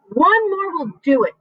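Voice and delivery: high, eager call; shouting. A narrator's reading. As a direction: urge them on. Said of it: "shouted the old green grasshopper".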